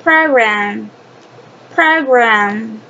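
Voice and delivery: drawn-out model of "program"; "program" sounded out for learners; pronunciation model. Shown as a demonstration. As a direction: say "program" carefully in two stretched syllables. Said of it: "So pronunciation is".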